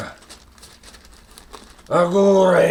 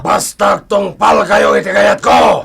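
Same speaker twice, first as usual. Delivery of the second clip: louder commanding shout; angry order; 5 dB louder than usual. Acted. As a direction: bark the order at them. Boss orders them angrily.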